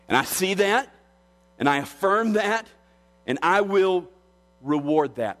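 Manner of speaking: high, ringing build on "see", "affirm" and "will"; fervent affirmation. Acted. A preacher voicing Jesus affirming John, fervent and high. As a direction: rise with conviction on each "that".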